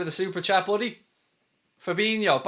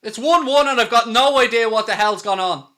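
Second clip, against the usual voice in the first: loud, raised exclamation of disbelief; baffled outburst; 3 semitones higher, 6 dB louder than usual. Real, not acted. Commentator who missed the goal, loud baffled outburst. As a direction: blurt it out, caught off guard. Surprise unseen goal by opponents.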